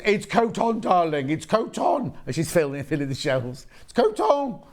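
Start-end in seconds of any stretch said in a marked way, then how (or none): 0.0-2.1 Coton said koh-TON with a nasal end, higher and pointed; insistent French coton. Retold or imitated. Shop lady corrects the presenter, insistent Coton koh-TON. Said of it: "She says". 3.8-4.6 Coton said koh-TON with a nasal end, higher and pointed; insistent French coton. Retold or imitated. Shop lady corrects the presenter, insistent Coton koh-TON. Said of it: "shop lady repeats".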